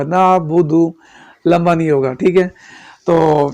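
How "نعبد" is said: نعبد with a short final u, not stretched; short nabud. Shown as a demonstration. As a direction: clip the ending of نعبد. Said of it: "یہ اس طرح ادا ہوگا". (نعبد مختصر پیش کے ساتھ)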